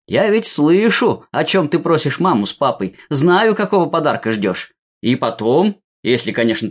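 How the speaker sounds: lightly booming jolly grandfather voice; booming Ded Moroz. Pretend. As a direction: play a warm, grand Father Frost. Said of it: "гулко произнёс".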